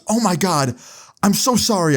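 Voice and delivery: high-pitched apologetic exclamation; imitated mortified mom. Mom apologizing to the party guests, imitated high mortified voice. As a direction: play an embarrassed mother apologizing.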